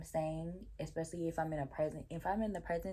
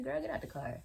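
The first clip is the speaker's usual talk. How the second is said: higher, lighter imitation of the boyfriend; higher mock boyfriend; 7 semitones higher, 4 dB quieter than usual. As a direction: repeat "Girl, get out the car." higher and softer, imitating him. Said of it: "That's what he said".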